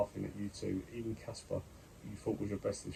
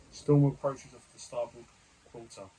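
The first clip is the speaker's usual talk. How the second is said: shout; 2 semitones higher, 9 dB louder than usual. A narrator's reading. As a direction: call it out over the storm. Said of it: "Betty Bottle shouts".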